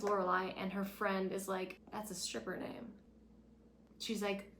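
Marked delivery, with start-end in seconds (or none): 1.9-2.9 unvoiced whisper of a catty remark; whispered aside. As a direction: whisper it like gossip. Friend's snide aside.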